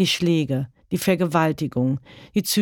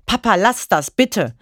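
higher, louder frightened plea; child begging; 4 semitones higher, 4 dB louder than usual. Acted. Son begging his violent father to stop, frightened. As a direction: beg your father to stop.

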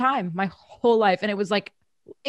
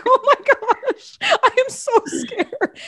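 mock scared; 8 dB louder than usual. Mocking grandma's shaming as kid.

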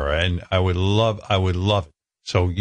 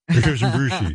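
higher, brassy radio host greeting; Cousin Brucey impression; 4 semitones higher than usual. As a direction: beam it out like an old DJ. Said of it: "an impression of, uh, Cousin Brucey".

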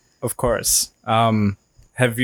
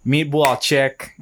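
slow, half-hearted Jersey accent; a weak try at Jersey Shore talk; 2 semitones higher, slower than usual. Shown as a demonstration. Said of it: "I can't do the Jersey accent".

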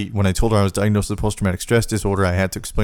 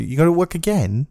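mom's surprise; 9 semitones higher than usual. Retold or imitated.

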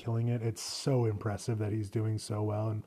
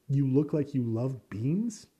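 incredulous repeat; 2 semitones higher, slower than usual. Retold or imitated. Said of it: "That's an insult if I've ever heard one".

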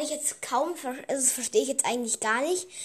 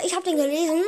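talking while eating a cherry; words around a mouthful; chewing while talking; 4 semitones higher, 3 dB louder, faster than usual. Real, not acted. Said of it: "ich esse grad eine Kirsche". (kauend sprechen)

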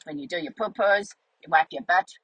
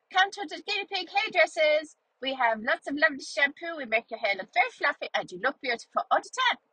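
high sing-out advert voice, easing down; put-on higher-pitched promo; hairdressers' sales pitch; 7 semitones higher than usual. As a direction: tout the salon like an acted advert. Guinea pig hairdressers' sales pitch retold.

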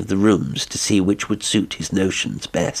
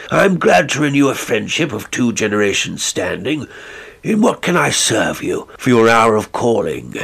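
gracious squire; 3 semitones higher, 3 dB louder than usual. Acted. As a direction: welcome the guest with old-fashioned courtesy. Sir Richard greets visitor.

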